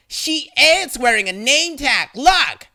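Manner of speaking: high, loud contradiction; indignant insistence. A narrator's reading. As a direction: argue back loudly, punching the last word. Angry lady insisting in argument.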